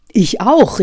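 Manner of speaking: eager exclamation. Acted. Kafka calls out to Hoffmann in eager agreement. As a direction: blurt it out, delighted to share it. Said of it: "rief Kafka".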